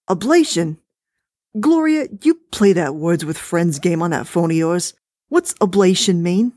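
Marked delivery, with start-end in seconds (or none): 1.6-6.5 wife voice. Acted. Husband asks, wife defines.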